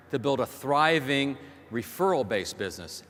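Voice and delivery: "thriving" set out as the key word of the question; stress on THRIVING. Real, not acted. Speaker challenging the audience on their business, stress on "thriving". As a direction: lean firmly on the word "thriving". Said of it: "Emphasis on the word thriving".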